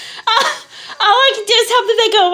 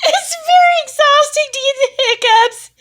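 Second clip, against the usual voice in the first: raised, tearful, laughing voice; laughing through tears; 4 semitones higher than usual. Real, not acted. Worn out by hiccups, she says it through tearful laughter. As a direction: push the words out while still laughing.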